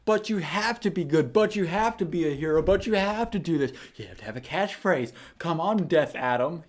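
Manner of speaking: lightly voiced pestering kid; whiny kid voice. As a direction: nag like an eager tagalong kid. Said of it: "this kid was following him like".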